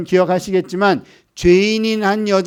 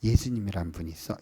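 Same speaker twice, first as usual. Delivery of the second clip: soft, low, tender voice; smiling gentle sharing; 8 semitones lower, 7 dB quieter than usual. Retold or imitated. Friend telling a nursing-school classmate about Jesus, gently smiling. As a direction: imitate a friend's quiet, smiling word. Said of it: "미소를 지으면서".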